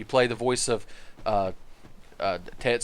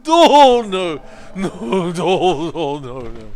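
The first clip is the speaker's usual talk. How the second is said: high, loud, dim-witted refusal; dopey shy NPC voice; 5 semitones higher, 8 dB louder, much slower than usual. Pretend. Streamer voicing a shy game companion refusing to help, dopey high voice. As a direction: play a bashful simpleton saying no. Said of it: "He's like".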